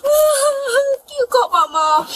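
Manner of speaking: tearful begging plea; crying. Real, not acted. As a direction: beg through tears. Frightened child crying.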